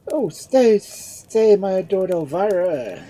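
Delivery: loud, high, begging cry; impassioned plea. A narrator's reading. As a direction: call her back in desperation. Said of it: "exclaimed Lord Edmund".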